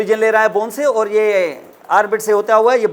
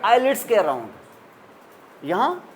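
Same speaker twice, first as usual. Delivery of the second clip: each word drawn out slowly; slow it down to drive the answer home; slow recap; much slower than usual. Shown as a demonstration. Teacher recapping for students, slow and deliberate. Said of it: "यहाँ किसके around काटा था?".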